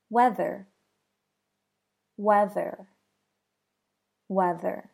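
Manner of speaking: "weather" with a buzzing voiced th; "weather" with the voice kept on through the th. Shown as a demonstration. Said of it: "That's voiced".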